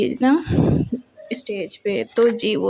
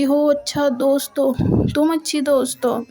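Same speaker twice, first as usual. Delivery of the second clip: mocking sarcasm; 4 semitones higher than usual. Mocking retort in retold quarrel.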